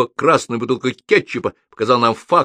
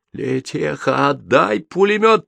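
high, drawn-out squealed demand; squealing; 7 semitones higher, slower than usual. A narrator's reading. Soldier demanding the lieutenant's machine gun, squealing high. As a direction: squeal for it greedily. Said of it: "завизжал в голос Лёня".

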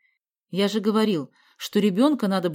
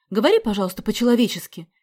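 louder, sharp rebuke; mother rebuking daughter, angry and louder; 4 semitones higher, 7 dB louder than usual. Acted. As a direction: snap at her to talk normally. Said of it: "сердито сказала Анна Андреевна".

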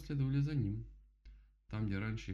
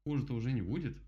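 self-soothing rabbit; 4 semitones higher, 5 dB louder than usual. Acted. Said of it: "попытался успокоить себя кролик".

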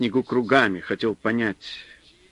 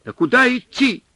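much higher, loud panicked yell; yelling over wind; 13 semitones higher, 6 dB louder than usual. A narrator's reading. Supply man yelling over the storm, panicked. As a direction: scream it over the howling wind. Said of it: "перекрывая вой ветра, заорал".

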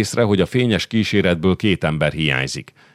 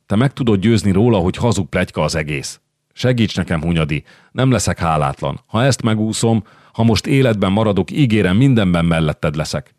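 desperate plea; 3 semitones higher than usual. Acted. Újlaki begging Hunyadi to save him, desperate and urgent. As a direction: plead for your life, voice rising.

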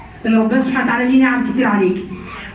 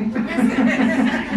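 light laugh; 3 dB quieter than usual. Real, not acted. Laughs at her own joke.

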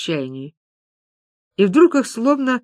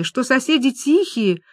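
higher, fretful recitation; wound-up droning; 4 semitones higher than usual. Acted. Люба keeps repeating the sellers' promises, wound-up. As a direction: keep on like a wound-up toy, pitched up. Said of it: "как заведённая".

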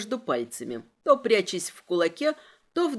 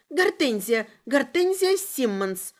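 scared prisoner's voice; frightened confession; 2 semitones higher than usual. A narrator's reading. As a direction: give the name up in fear. Prisoner blurts out her name.

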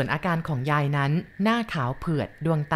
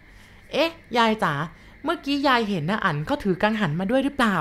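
put-on higher, slow sweet child voice; coaxing boy; 5 semitones higher than usual. Boy sweetly asks grandma about the pinwheel. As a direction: coax grandma gently.

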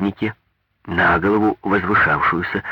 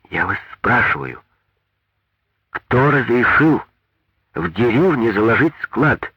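louder, slow insistent demand; raised voice; 5 semitones higher, 3 dB louder than usual. A narrator's reading. Maria Ivanovna raising her voice at the foreman. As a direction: press him for an answer. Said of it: "повысила голос Мария Ивановна".

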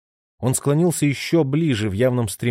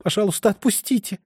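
high, pleading frantic plea; a touch of panicked begging; frantic babbling; 10 semitones higher than usual. A narrator's reading. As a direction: beg him in panic. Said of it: "судорожно лепетала она".

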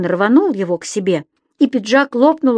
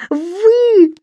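high, loud, drawn-out outburst; furious roar; 12 semitones higher, 7 dB louder than usual. A narrator's reading. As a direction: roar the correction, trembling with rage. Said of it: "дрожа от ярости, рявкнул Стукин Крик".

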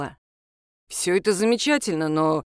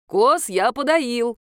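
called out; 4 semitones higher, 4 dB louder, much slower than usual. A narrator's reading. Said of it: "крикнул он мне из спальни".

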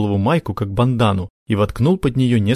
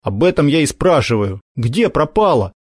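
impatient; 5 semitones higher than usual. Acted. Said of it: "нетерпеливо уточнил Макар".

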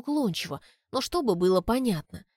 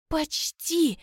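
breathed out; 8 semitones higher than usual. A narrator's reading. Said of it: "выдыхаю я".

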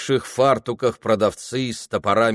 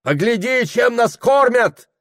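angry crowd; 14 semitones higher, 6 dB louder than usual. Acted. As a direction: make him look.

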